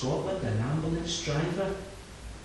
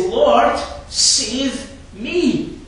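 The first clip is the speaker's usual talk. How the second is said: loud, high cry of a drowning man; Peter's cry; 10 semitones higher, 9 dB louder, much slower than usual. Acted. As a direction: shout for rescue as the waves close in. Peter sinking cries out.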